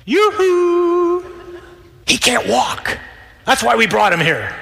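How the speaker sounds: high, loud, comic call down from the roof; yoo-hoo them like friends on a roof. Acted. Friends on the roof calling down to Jesus, high loud comic shout.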